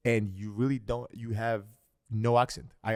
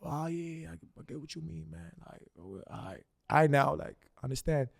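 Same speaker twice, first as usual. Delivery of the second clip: mock American slang; 4 semitones higher than usual. Showing how he talks to a New Yorker, mild American voice. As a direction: slip into easygoing American speech. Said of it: "and you're from, like, New York".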